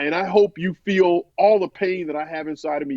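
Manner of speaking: building anger. Retold or imitated. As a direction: act out anger being wished on someone. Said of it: "building this rage and this anger".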